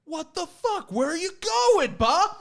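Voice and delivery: very high, mock-screamed protest; imitated scream. Man left at elevator asks his new friend, screaming. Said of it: "he, like, screams".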